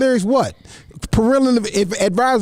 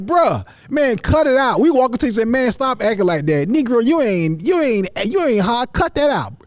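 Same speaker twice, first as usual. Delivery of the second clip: telling him off; 3 semitones higher than usual. Retold or imitated. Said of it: "We like".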